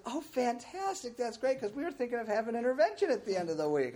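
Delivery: a mother's delighted high gush on the phone. Retold or imitated. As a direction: play the relieved mom cooing over the news. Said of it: "And she says".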